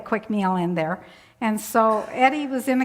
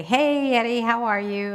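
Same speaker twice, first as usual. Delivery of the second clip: calling out a greeting. Retold or imitated. Visitor greeting Eddie on his bunk, calling out. Retold greeting to withdrawn resident.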